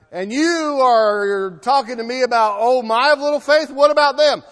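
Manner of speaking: Peter protesting. Acted. Peter voiced arguing back.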